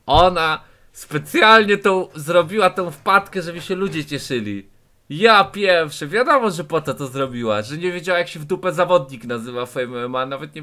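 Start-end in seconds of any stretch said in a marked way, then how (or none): 0.0-4.7 slow, louder, mocking emphasis on specjalnie; sarcastic disbelief. Real, not acted. Reacting to the clip, slow sarcastic disbelief. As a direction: lean on it like you can't believe it. Mocking her claim of deliberate gaffes.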